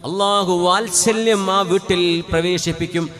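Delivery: loud, high, impassioned sermon voice; fervent Friday preaching; full-force preaching. Acted. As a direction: preach it out to the whole hall.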